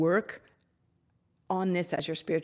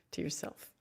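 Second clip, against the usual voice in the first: whispered echo; 7 dB quieter than usual. Shown as a demonstration. Healer echoing her blessing to viewers in a near whisper. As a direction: breathe the words again almost silently. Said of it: "to yourself repeated".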